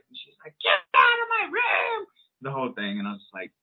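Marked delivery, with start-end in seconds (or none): 0.6-2.1 high crying shout, imitated; daughter's scream. Daughter yelling at dad to leave, imitated crying shout. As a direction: mimic a kid's tearful yell.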